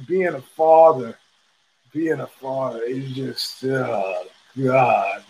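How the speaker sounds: fighting back tears over being a father; choked up. Real, not acted. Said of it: "I'm getting choked up now talking about it".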